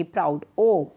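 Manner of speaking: प्राउड said with a drawn-out ओ sound; vowel demo. Shown as a demonstration. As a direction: stretch the ओ in प्राउड. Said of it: "प्राउड जब आप बोलते हो तो क्या sound होगी". (प्राउड में ओ की आवाज़ खींचकर बोलना)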